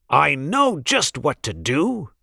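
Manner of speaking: a hint of a chuckle in the throat, lightly voiced Grinch; throaty laugh. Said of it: "the Grinch laughed in his throat".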